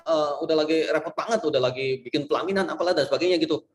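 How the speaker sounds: a hint of a harried student; imagined student Vio. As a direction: plead your case to the professor, voice lifted a little. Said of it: "Misalnya Vio, Vio kayak gitu ngomongnya".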